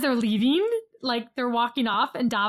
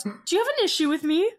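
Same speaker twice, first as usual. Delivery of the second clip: mock Italian-accented challenge, pitched up; lightly put-on Italian accent; 5 semitones higher, faster than usual. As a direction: imitate her with a rough Italian accent. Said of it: "It's an Italian accent".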